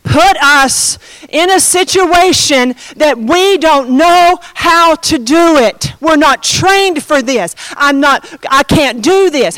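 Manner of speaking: slow, accusing outburst; mock lashing out at God. Believers lashing out at God for their situation, mock anger. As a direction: drag out each word in pretend indignation. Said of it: "And we say".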